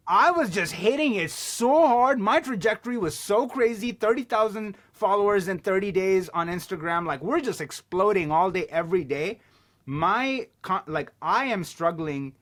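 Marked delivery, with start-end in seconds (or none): 0.1-9.4 excited. Real, not acted. Bragging about explosive growth.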